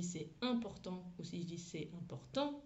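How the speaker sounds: "important" said twice in French, the emphasis moved; accent déplacé. Shown as a demonstration. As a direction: shift the stress between the two takes of "important". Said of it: "ça change pas du tout le sens". (« important » en français, accentué de deux façons)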